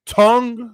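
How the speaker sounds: "Tongue" said on its own, slow and clear; "Tongue" stressed as the key sound. Shown as a demonstration. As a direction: pronounce "Tongue" as the first syllable of the name. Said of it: "so say tongue".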